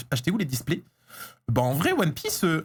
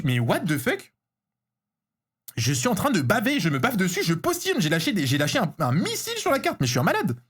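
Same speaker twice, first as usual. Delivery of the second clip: thrilled disbelief. Real, not acted. Collector raving to viewers over a rare card, thrilled. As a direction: rave in disbelief, jumping up on key words.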